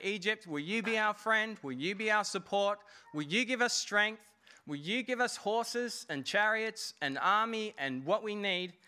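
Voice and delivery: a touch of a needy plea; mock pleading. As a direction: beg a powerful ally for help. Israel begging Egypt for help.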